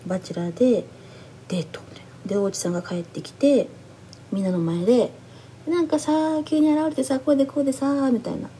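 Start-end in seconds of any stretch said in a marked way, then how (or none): 5.7-8.1 higher-pitched mock storytelling, gamely keeping it light; trying to be funny. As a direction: imitate someone working hard to tell it amusingly. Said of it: "ちょっと面白く頑張って話して".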